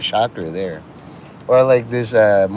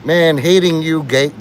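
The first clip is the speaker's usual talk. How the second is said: mock choked-up; 6 semitones higher, 6 dB louder than usual. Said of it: "almost crying".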